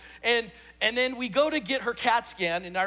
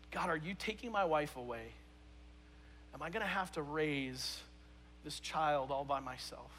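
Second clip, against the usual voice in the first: despairing prayer; 4 semitones lower, 11 dB quieter than usual. Retold or imitated. His prayer of fear in hospital.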